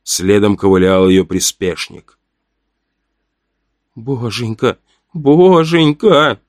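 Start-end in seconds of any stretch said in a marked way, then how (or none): 3.9-4.8 softer, hushed plea to God; whispered prayer. A narrator's reading. Boy whispering a prayer as the cult sister climbs. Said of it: "шептал Назар". 5.1-6.4 slow, drawn-out frightened plea; pleading prayer. A narrator's reading. Boy pleading to God in fear as the cult sister climbs. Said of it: "шептал Назар".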